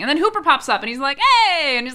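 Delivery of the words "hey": high, loud mock hail; imitated calling out. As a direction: call out like someone popping up from the water. Imitates Hooper calling out on surfacing.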